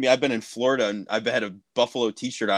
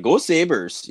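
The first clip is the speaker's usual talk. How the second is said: put-on Canadian accent; 6 semitones higher than usual. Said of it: "in a Canadian accent".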